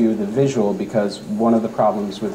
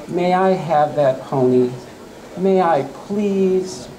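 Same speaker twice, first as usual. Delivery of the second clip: put-on begging girl; 7 semitones higher, slower than usual. Abigail begging parents for pony.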